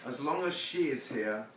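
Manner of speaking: measured, rhythmic poem reading; poetry reading. Acted. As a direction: savour the rhymes calmly. Reads poem Rain Slaker.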